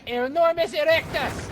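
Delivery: shouted through laughter; laughing. Real, not acted. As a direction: blurt it out cracking up. Laughing spell call.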